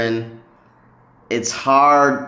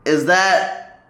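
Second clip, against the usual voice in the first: higher, asking a local to clarify; asking a local whether a phrase is dialect, higher puzzled question; 5 semitones higher than usual. Retold or imitated. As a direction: raise the voice up to check politely. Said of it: "started asking them".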